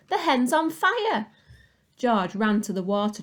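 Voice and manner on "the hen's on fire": high, loud alarmed yell. A narrator's reading. Grandma seeing smoke from the hen, a loud slow yell. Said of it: "Grandma yelled".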